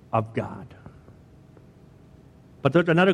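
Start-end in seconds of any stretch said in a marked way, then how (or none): 0.1-0.7 dramatic whisper. Real, not acted. Preacher closing a thought to the congregation in a whisper. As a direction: sink to a breathy whisper on the last words.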